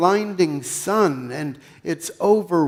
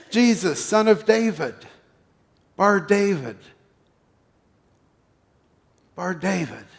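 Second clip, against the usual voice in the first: calling out, higher and a little louder; shouting; 4 semitones higher, 3 dB louder than usual. Acted. Blind beggar calling out to Jesus over the crowd, shouting. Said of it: "And you then start shouting".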